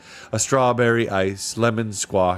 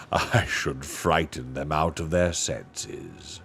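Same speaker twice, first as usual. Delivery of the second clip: noble lion voice; 2 semitones lower than usual. Acted. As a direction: speak like a calm, kingly lion. Aslan speaks to Lucy.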